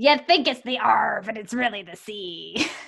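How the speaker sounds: cute, small put-on pirate voice. Delivering the punchline of a pirate joke, little pirate voice. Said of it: "the little pirate voice that went along".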